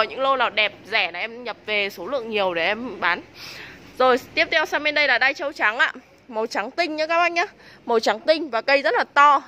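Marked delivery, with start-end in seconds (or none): 4.0-9.4 hard sell ad. Real, not acted. Seller pitching orchid prices loudly.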